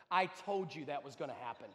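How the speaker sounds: low, matter-of-fact parental rebuke; unmoved told-you-so. Retold or imitated. Mother looks at her screaming son, unmoved told-you-so. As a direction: drop it low, with no sympathy.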